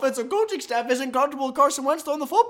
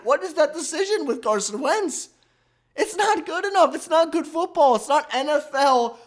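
raised-pitch exasperation; frustrated rant; 4 semitones higher than usual. Real, not acted. Host condemning the team's quarterback decision, exasperated. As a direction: protest it in real frustration, pitched up.

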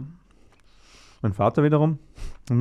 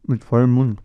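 talking while chewing gum; words round a big gum; mouth full; 3 semitones higher than usual. Real, not acted. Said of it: "jetzt darf ich so reden".

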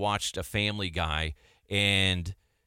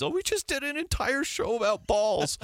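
laughing; 14 semitones higher than usual. Retold or imitated. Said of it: "and he's".

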